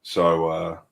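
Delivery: sarcastic. Real, not acted. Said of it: "That's sarcasm".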